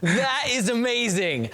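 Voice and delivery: drawn out very slowly, floored; stunned oh my gosh. Real, not acted. Host reacting to the taser story, slow stunned disbelief. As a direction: let each word stretch in disbelief. Reacting to burning flesh punchline.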